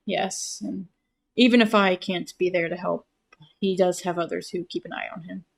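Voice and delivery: gentle voice after a sigh; soft, tender reply. Acted. Detective softly reassuring his friend about others, tender. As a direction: speak softly, fondly, after a pause. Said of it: "eyes soften, and there is a pause".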